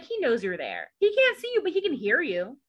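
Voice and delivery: lightly Southern, sassy; a hint of Southern sass; Southern accent. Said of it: "my Southern accent comes out".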